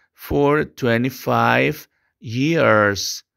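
slow, clear sentence for repetition; slow English teacher model. Shown as a demonstration. Teacher dictates the model sentence to students. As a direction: articulate each word for the class.

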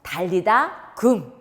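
달리다굼 said slowly, syllable by syllable; 달리다굼 stretched out slowly for the kids. Shown as a demonstration. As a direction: draw out 달리다굼 so children can copy. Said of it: "한 번만 더요".

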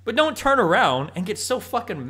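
rising to a loud, high shout; furious rant, building to a yell; angry rant. Real, not acted. Ranting at a streamer.

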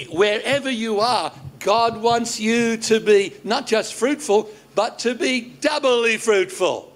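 ringing, deliberate proclamation; preacher's climax with stressed key words; emphatic preaching. Real, not acted. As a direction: drive the point home from the pulpit. Preacher drives home closing point.

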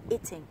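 second "eating" said "ee-ding" with a light flap; American flap T. Shown as a demonstration. Teacher showing American pronunciation, flapped "eating". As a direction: soften the t in eating to a quick d. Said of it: "sẽ được đọc thành eating".

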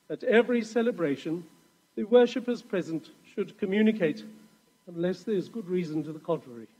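lightly posh, formal reading. Shown as a demonstration. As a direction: read it like a prim old rulebook. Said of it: "I always have to read these in a po-, posh voice".

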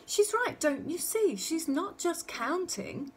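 high, eager explanation; excited realisation. A narrator's reading. Mother telling husband the child isn't just counting, excited. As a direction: start high and excited, spell out the discovery.

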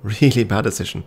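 said through a laugh; chuckling at your own mistake. Real, not acted.

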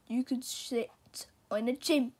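hushed rhyme; whisper. Acted. Dog whispering a rhyme to the cat. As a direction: whisper it teasingly.

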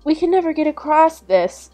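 put-on high-pitched child voice; dismayed boy. A narrator's reading. Hansel faces a great water, dismayed.

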